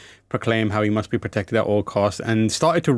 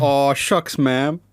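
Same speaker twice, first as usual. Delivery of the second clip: cowboy drawl; 2 semitones higher, much slower than usual. Shown as a demonstration. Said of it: "and I did a".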